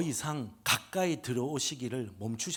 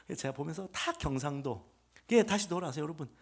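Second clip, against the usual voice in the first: usual speaking voice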